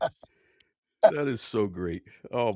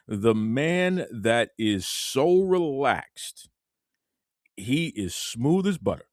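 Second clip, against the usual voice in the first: podcast host intro; 4 semitones lower than usual. Acted. Host welcoming listeners and introducing Devon, hyped intro. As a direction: build up the guest like a ring announcer.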